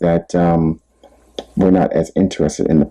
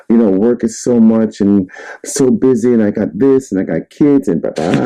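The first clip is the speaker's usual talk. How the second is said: higher-pitched, lightly mimicked list of excuses; imitated busy-person complaining; mock excuses; 4 semitones higher than usual. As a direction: rattle off excuses as if put-upon, lightly mocking. Mimics people's excuses for being busy.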